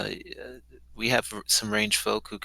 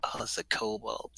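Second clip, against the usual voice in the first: whisper; 8 dB quieter than usual. Real, not acted. Whispering at sight of enemy.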